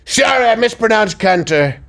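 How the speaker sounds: a hint of Trump backpedalling; Trump impression. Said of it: "Wait five minutes".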